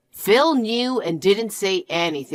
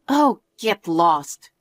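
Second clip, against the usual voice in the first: slow contempt; 2 semitones lower, much slower than usual. Acted. Dismissing the cheating fiancé.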